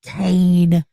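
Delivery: slow, drawn-out champions announcement; ring announcer call. Shown as a demonstration. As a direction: stretch every name like a ring announcer closing the show. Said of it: "remember to be able to say at the end of the match".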